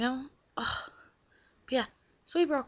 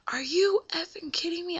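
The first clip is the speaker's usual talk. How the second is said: higher, incredulous swearing; angry outburst; 8 semitones higher than usual. Retold or imitated. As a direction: pitch jumps up in retold disbelief. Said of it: "I started dropping F-bombs".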